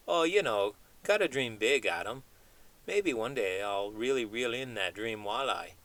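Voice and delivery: chatty cartoon chimp dreaming big, not far from own voice; lightly voiced chimp. Puppet chimp talks to host.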